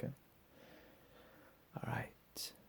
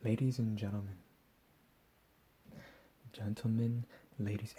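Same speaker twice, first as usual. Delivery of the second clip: mock announcer; 4 dB louder than usual. Captor announcing to his victims.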